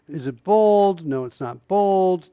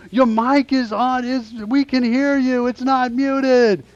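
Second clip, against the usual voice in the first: imitated warning; 8 semitones higher than usual. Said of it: "He's like".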